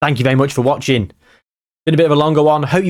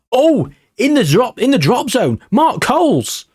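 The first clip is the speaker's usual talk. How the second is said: high, rising excited calls; cheering the free kick on, voice jumping up; 11 semitones higher than usual. Real, not acted. Free kick chance, team fighting relegation.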